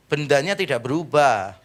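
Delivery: ordinary talk, nothing marked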